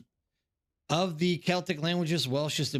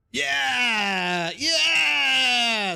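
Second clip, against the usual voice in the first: yelling high and loud in triumph; over-the-top gamer cheer; excited shout; 9 semitones higher, 7 dB louder than usual. Real, not acted. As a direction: let out a big victory cry. Cheering at a game moment.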